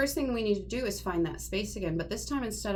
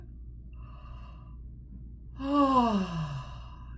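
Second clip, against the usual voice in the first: higher sigh. Shown as a demonstration. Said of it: "a little bit higher".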